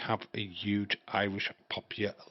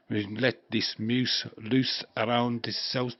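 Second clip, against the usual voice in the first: mock Scottish advert; slower than usual. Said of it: "and it'd be".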